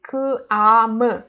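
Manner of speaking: K, A, M as separate sounds; letter by letter. Shown as a demonstration. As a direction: sound out K, A, M one at a time. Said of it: "We don't read it like this".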